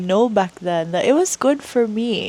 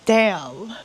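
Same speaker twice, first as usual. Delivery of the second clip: getting emotional; 3 semitones higher, much slower than usual. Real, not acted. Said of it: "Sorry, I got emotional".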